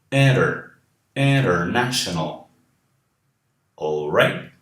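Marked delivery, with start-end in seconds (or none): 1.1-2.4 International with IN and NA both stressed; two stresses. Shown as a demonstration. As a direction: lean on IN and NA in International. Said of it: "Palavras de cinco sílabas também".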